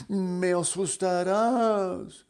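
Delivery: high, loud frightened squeal; mock fright. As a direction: shriek like a startled butterfly. Butterfly scared.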